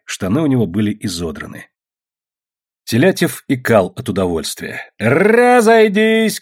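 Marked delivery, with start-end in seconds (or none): 5.0-6.4 high, loud, slow drawn-out order; long booming call; shouted command. A narrator's reading. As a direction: constable bellows at the crowd. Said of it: "кричал урядник Попов".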